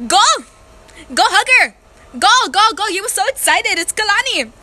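loud, high teasing cheer; mock urging. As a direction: egg him on loudly, hammed-up. Urging cousin to hug lady.

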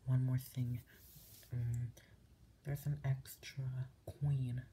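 hushed, unhurried ASMR talk. Real, not acted. Host guiding viewers through a chess setup, hushed ASMR voice. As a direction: talk a viewer gently through it, half-whispered.

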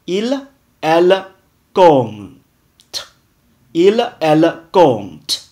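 compte slowly, ending on the t sound, p silent. Shown as a demonstration. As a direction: model compte with no p and no ending vowel. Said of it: "E N T不发音". (compte里的p和词尾不发音)

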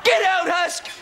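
shouted orders to get out; angry shouting. Acted. Ringleader throwing Husk out, angry shouting. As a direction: bark him out the door.

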